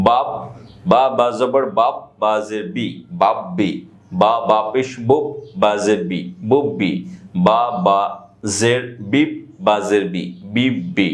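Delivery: measured syllable-by-syllable drill, first b of "বাব বি" left vowelless; sakin spelling drill. Shown as a demonstration. Teacher showing sakin inside a word, syllable-by-syllable spelling drill. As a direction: spell it out, then join "বাব বি", "বুব বি", "বিব বি" on a closed b. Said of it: "এভাবে উচ্চারণ হয় সাকিন বা সুকুনের".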